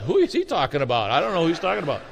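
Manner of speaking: chuckling through the words; laughing mock disbelief. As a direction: play the doubting congregation, laughing. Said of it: "So you're laughing like".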